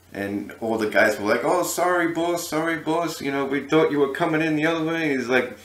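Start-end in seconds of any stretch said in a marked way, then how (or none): 1.5-5.1 high-pitched mock apology; apologetic underlings. Guys apologizing to their angry boss, apologetic. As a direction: imitate flustered men placating the boss.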